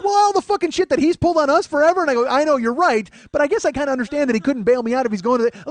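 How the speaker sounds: high, loud enraged rant; furious shouting. Acted. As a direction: yell it in outraged disbelief. Acted furious argument over the friend.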